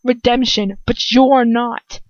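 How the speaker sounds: slow, deliberate, word by word; careful. Real, not acted. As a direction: articulate each word slowly. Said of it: "reader slows to get word right".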